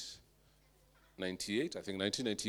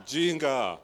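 laughing; 3 semitones higher, 9 dB louder than usual. Real, not acted. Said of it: "laughing repeat".

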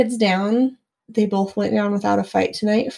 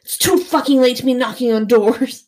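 mild retold yell; 2 semitones higher, 4 dB louder than usual. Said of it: "like, I yelled".

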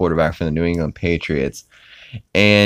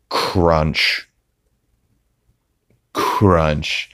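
crunch sound. Retold or imitated. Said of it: "hear Peter eating chips".

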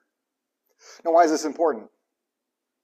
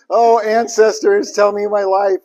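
high, loud and slowly drawn out; hammed-up cry to the ancestors; overly dramatic plea to the spirits; mock mystical plea; 7 semitones higher, 9 dB louder, slower than usual. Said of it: "she was like".

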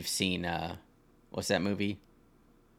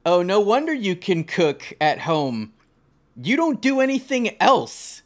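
mocking daughter-in-law; 4 semitones higher, 3 dB louder than usual. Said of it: "she says that".

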